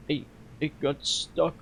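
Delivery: slow, halting hint of Russian; lightly attempted Russian accent, stumbling slowly. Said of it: "he was supposed to be Russian".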